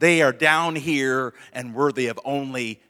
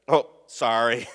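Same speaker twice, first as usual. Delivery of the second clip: careless sorry; 3 semitones lower than usual. Shown as a demonstration. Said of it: "that's all sorry does".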